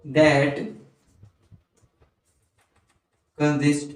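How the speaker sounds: one word at a time, long pauses; low, spaced-out dictation; slow dictation. Real, not acted. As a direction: pause after every word for writing. Dictating definition while writing it.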